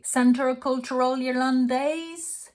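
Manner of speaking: slow "Centre Culturel Irlandais" with the final S sounded; pronúncia errada. Shown as a demonstration. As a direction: misread "Irlandais" with an English R and ending. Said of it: "Here is how to pronounce".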